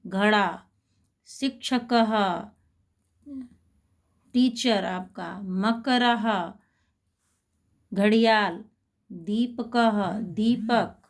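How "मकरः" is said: patient teacher spelling मकरः; slow Sanskrit demo. Shown as a demonstration. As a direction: sound out मकरः syllable by syllable. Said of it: "तो देखिए कैसे बोलेंगे इनको".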